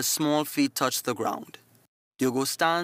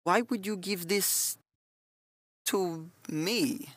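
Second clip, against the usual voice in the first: voice breaking; 6 semitones higher, 4 dB quieter, slower than usual. A narrator's reading. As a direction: voice cracking slightly with emotion. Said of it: "His voice breaks slightly".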